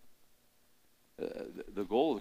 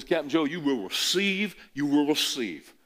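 loud, higher Southern referee call; Southern referee accent; 5 semitones higher, 6 dB louder than usual. Retold or imitated. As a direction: announce it like a Mississippi official. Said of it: "real deep Southern accent".

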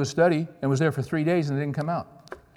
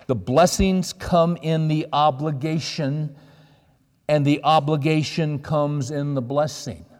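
drawn out slowly, weighting "blessings" and "obligation"; slow and emphatic; 2 semitones higher, slower than usual. Real, not acted. Preacher setting out the key principle for his congregation, slow and emphatic. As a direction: deliver it very slowly, spacing out each phrase.

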